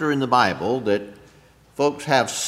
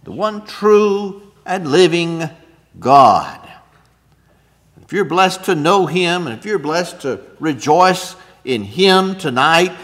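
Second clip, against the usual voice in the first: rising preaching; 3 semitones higher, 6 dB louder than usual. Real, not acted. Preacher rising to full force.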